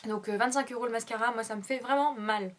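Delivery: frog in throat, slightly husky. Real, not acted. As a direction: talk past a frog in throat. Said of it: "J'ai un truc dans la gorge".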